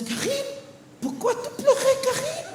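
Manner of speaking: mother's high coo. Retold or imitated. Mom coaxing her son, high sweet coo. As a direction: coo at the kid like a soft mother. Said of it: "and she goes".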